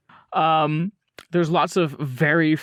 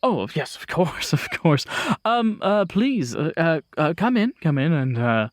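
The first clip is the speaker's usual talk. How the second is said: flustered host. Acted. GM voices flustered Thomas Grand.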